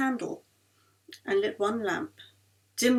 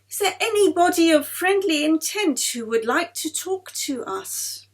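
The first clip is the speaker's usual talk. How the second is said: a mild solemn séance call; lightly voiced medium's invocation; intoned; 6 semitones higher, 4 dB louder than usual. A narrator's reading. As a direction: intone the question to the spirits. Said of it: "Mary intoned".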